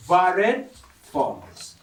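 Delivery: "varied" drawn out slowly, then a pause before "forms"; stress on VARIED. Retold or imitated. Preacher recalling what a colleague emphasized, stress on "varied". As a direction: lean slowly on the word "varied". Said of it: "she emphasized the word".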